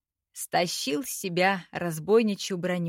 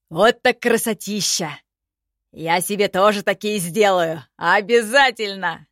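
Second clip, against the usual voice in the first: louder, thrilled goblin voice; delighted goblin; 5 dB louder than usual. A narrator's reading. Goblin Nanga marvels at the tattoos, excited. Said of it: "присвистнул от восторга".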